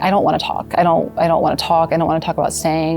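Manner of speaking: frustrated pleading. Retold or imitated. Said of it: "I just remember being really frustrated".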